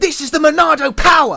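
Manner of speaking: put-on British accent. Showing how hard voice acting is, trying a game line as a Shulk impression. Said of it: "because that's like a British accent".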